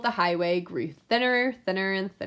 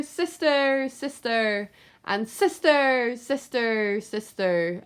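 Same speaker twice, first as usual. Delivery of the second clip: cave echo; 3 semitones higher, slower than usual. Acted. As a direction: let it die away like an echo. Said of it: "a voice from the cave came back".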